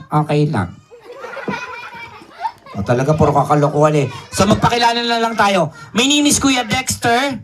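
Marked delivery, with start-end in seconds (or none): 2.7-4.1 low, fast, muttered exasperation; exasperated aside. Acted. Host grumbles at puppet's jokes, fast and low. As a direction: roll your eyes and rattle it off.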